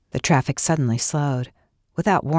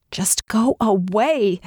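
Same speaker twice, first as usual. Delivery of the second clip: scream; 6 semitones higher, slower than usual. A narrator's reading. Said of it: "she wanted to scream".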